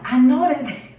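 laughing through the words; laughing thought. Retold or imitated. Cashier realizing who the customer is, laughing. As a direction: let the recognition spill into laughter.

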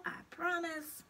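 high, slow promise; little creature's drawn-out wheedle; coaxing pigtail. A narrator's reading. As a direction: promise sweetly to tempt him. Pigtail coaxes Paul.

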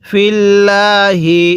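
"ফিল্লাহি" slow, with doubled l and the final হি sounded; don't clip "ফিল্লাহি" to ফিল্ল; full ending. Shown as a demonstration. Teacher warns students, "ফিল্লাহি" chanted in full. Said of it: "কিভাবে পড়ব?".

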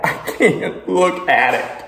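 laughing slowly through the words; nervous laugh. Real, not acted. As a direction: giggle it out, horrified. Laughing in disbelief.

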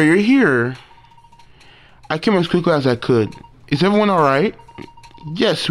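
mild hammed-up character reading; lightly voiced game characters. Voicing game dialogue characters.

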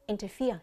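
interfere with the stress on FERE; stress on third syllable. Shown as a demonstration. Teacher gives students the answer, stressing the end of interfere. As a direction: land on the last syllable of interfere. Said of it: "nhấn vào âm thứ ba".

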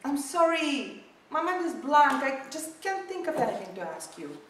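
loud, high-pitched first-date panic; flustered panic. Acted. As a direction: wail helplessly as your mind goes blank.

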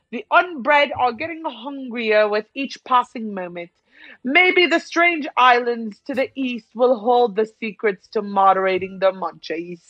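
measured, theatrical commentator delivery; game dialogue read-aloud. Acted. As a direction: read it out like a storybook narrator.

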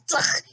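anime tsk. Retold or imitated. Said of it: "a little anime, tsk".

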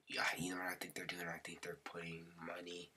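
whispered, as if sharing a secret; hushed aside to viewers; conspiratorial whisper. Real, not acted. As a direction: lean in and whisper it. Sharing a suspicion about the game.

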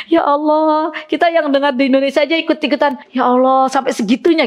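amazed. Real, not acted. Amazed at moving recitation. (kagum, suara naik dan cepat)

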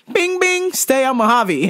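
high bing chime then announcement; lightly mocked GPS voice. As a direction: imitate the navigation chime. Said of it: "the thing goes".

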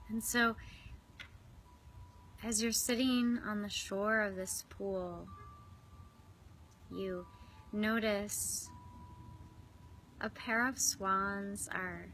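unhurried visualization, phrase by phrase; guided meditation. Real, not acted. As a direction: guide them inward with long, restful pauses. Leads swan pool visualization.

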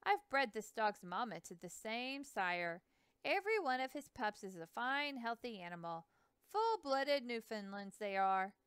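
put-on a proud old boatman bragging about his dogs; Hanson's voice. Hanson voiced, river man.

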